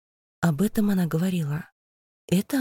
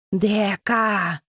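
creature calling her name; 3 semitones higher than usual. A narrator's reading. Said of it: "кричит прыгун".

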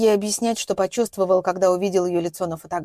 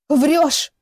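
a sharp shout, much higher and louder; 7 semitones higher, 6 dB louder than usual. A narrator's reading. Captive girl shouting at her kidnapper, loud and high. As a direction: fling the accusation like a slap. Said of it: "крикнула она".

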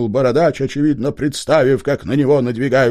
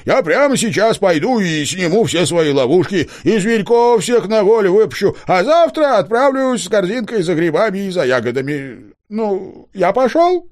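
meek hunter; 9 semitones higher, 3 dB louder than usual. A narrator's reading.

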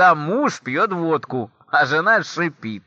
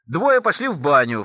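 ordinary delivery

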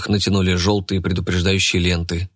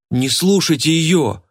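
indignant cry; 8 semitones higher, slower than usual. Acted. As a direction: burst out in indignation. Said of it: "возмущённо воскликнула Анастасия".

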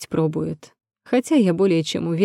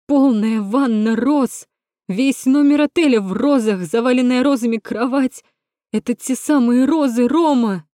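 yelling; 6 semitones higher, 4 dB louder than usual. Acted. Natasha yells at Rom about the roses. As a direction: keep shouting it at him. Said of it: "Хватит орать".

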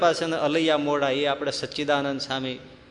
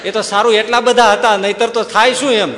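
loud, laughing comment; laughing out the punchline; 7 semitones higher, 11 dB louder than usual. Real, not acted. Preacher to listeners, laughing at the fleeing mourners.

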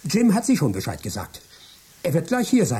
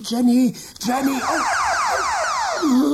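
high, louder call for his wife; desperate call; 3 dB louder than usual. Acted. Michael trying to reach Jenny, high desperate call. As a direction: call out to her before you're silenced. Michael shouts then is cut off.

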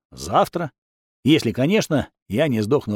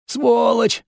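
rasping curse; 9 semitones higher than usual. A narrator's reading. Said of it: "прохрипел он".

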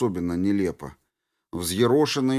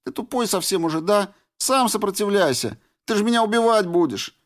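высоко, сквозь слёзы, с упрёком; злится и рыдает; плачущая Флёр; 12 semitones higher, faster than usual. A narrator's reading. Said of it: "пуская по щекам ручейки слёз". (Флёр в слезах ругается)

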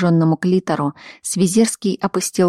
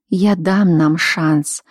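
whispered promise; much slower than usual. Acted. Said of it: "прошептала Рита".

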